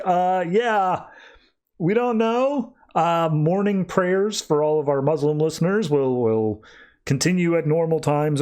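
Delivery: imitating a baffled radio host; radio announcer. Recap of news radio, a mock baffled radio announcer.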